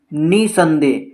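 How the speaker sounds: निसंदेह with the opening नि pushed; stress on the first syllable of निसंदेह. Shown as a demonstration. Teacher giving an example of syllable stress, नि stressed in निसंदेह. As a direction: lean on the नि in निसंदेह. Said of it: "नी पर ज़्यादा जोर लगाना पड़ा".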